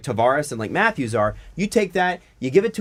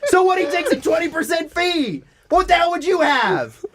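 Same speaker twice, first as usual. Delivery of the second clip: exasperated rant; 11 semitones higher than usual. Real, not acted.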